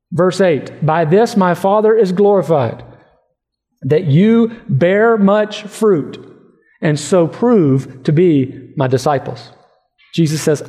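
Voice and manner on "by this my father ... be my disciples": slow, measured Bible reading; measured pulpit reading with drawn-out phrases; scripture reading. Acted. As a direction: read the verses out deliberately, weighing key words. Reads scripture aloud.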